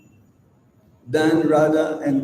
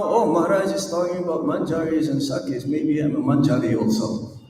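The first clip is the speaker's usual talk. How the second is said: quick, lower voice for an imagined follower; imagined devotee's thought; 4 semitones lower, faster than usual. Acted. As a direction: lightly mimic a naive devotee thinking aloud. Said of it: "don't think that right now".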